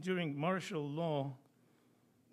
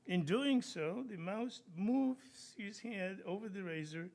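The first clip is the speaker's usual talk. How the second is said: eager inventor; 5 semitones higher than usual. Acted. Inventor explains mousetrap eagerly.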